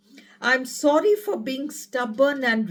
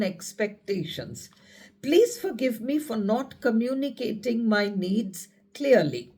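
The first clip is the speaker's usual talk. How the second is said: guided affirmation. Acted. Speaker reciting forgiveness affirmations to a partner, calm meditative voice. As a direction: recite each line gently, like a healing prayer.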